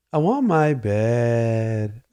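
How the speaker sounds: put-on slow, drawn-out little-kid whine; whiny toddler. Father imitating his son demanding his nap bed. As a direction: stretch it out like a sulky toddler. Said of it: "I said".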